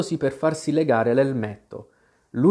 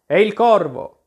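high, louder cry of fright; shrill and frightened; 7 semitones higher, 6 dB louder than usual. A narrator's reading. Tweedledum sees the crow coming, high frightened cry. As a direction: scream out the alarm in terror. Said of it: "con voce acuta e piena di spavento".

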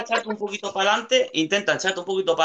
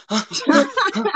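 mock moaning; 8 semitones higher than usual. Shown as a demonstration. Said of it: "como si estuvieras teniendo un orgasmo".

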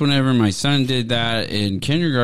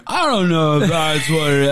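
imitated doubting son; 4 semitones higher than usual.

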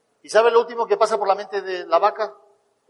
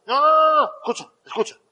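urgent insistence; 6 semitones higher than usual. Retold or imitated. Insisting to a puzzled friend, urgent and excited. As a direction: stop him and make him listen.

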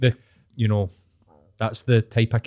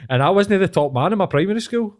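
laughing through the line, voice pitched up; 9 semitones higher, 5 dB louder than usual. Real, not acted. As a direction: giggle it out. Laughing at own story.

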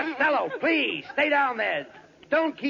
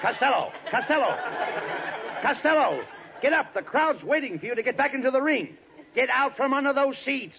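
calling out; 5 semitones higher than usual. Acted. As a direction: call him back to the ring. Calling out to hiding Costello.

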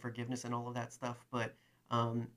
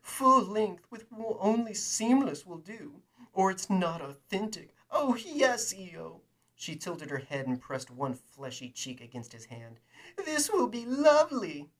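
very high, loud, slow cooing; cooing woman; 8 semitones higher, 8 dB louder than usual. Acted. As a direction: coo it greedily like a spoiled socialite. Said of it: "she cooed".

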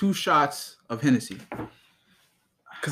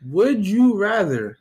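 game show host; 5 semitones higher, slower than usual. Pretend. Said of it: "are we on a game show?".

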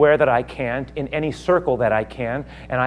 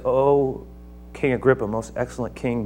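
gentle appeal; 3 dB quieter than usual. Acted. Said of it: "And then he says".

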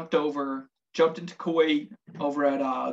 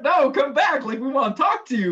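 louder, higher plea as they walk off; calling after them; 8 semitones higher, 5 dB louder than usual. Retold or imitated. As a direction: beg the girls to come back, half joking. Calling after women walking away.

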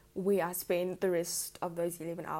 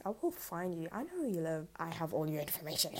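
creepy stalker voice. Pretend. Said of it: "after you heard that voice".

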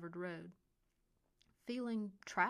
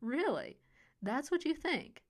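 higher, louder scornful question; mocking disbelief; 7 semitones higher, 7 dB louder than usual. A narrator's reading. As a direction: scoff at his threat. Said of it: "mocking disbelief".

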